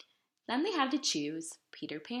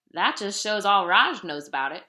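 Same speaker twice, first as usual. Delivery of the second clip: indignant retort; 7 dB louder than usual. Acted. Ma dismisses Raj's claim.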